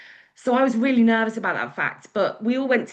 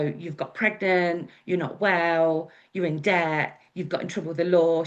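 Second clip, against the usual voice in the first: slow worried list. Retold or imitated. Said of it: "just went through everything".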